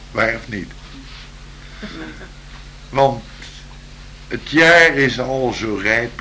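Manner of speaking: slow, lilting poem reading; poem recital. Acted.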